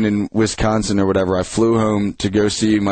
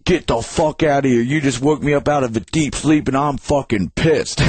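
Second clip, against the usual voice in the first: imitated angry neighbor, higher pitch; mildly acted pissed-off order; Hane; 4 semitones higher than usual. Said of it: "and goes".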